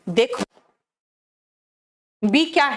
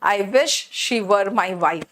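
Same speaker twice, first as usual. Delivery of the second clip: slow, deliberate teaching read; slow model sentence; 3 semitones lower, much slower than usual. Shown as a demonstration. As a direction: say it slowly so they copy. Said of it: "काश वो मेरी बीवी होती". (धीमी, सोची-समझी पढ़ाई)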